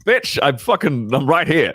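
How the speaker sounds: mock exasperation. Boyfriend to live-in girlfriend, mock exasperated protest. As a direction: protest in hammed-up disbelief.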